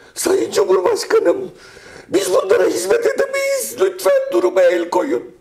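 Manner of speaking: piercing, shrill, very high shriek. Retelling how a woman pleaded with the President, imitating shrill shrieking. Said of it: "Ciyak ciyak bağırarak".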